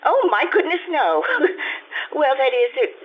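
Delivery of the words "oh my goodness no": flustered laugh. Acted. Flustered widow denies state occasion.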